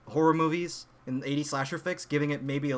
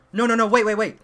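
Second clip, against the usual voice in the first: higher, louder frantic stop; urgent pleading; 5 semitones higher, 7 dB louder than usual. Retold or imitated. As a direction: halt them in a hurry. Brother stops friends from running.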